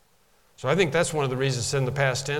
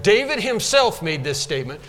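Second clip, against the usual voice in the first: "David himself" punched; emphatic; 4 semitones higher than usual. Shown as a demonstration. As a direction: put the weight on "himself". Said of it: "that's what's being said here".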